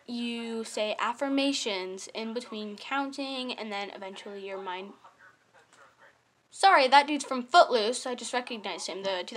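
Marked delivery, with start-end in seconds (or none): 0.1-3.5 careful slow retry. Shown as a demonstration. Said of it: "if I mess up one more time".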